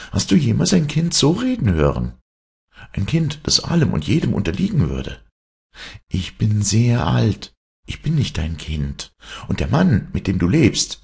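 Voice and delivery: high, emphatic proclamation; uncanny child lecturing his mother; defiant trickster son. Acted. Hero renounces his mother.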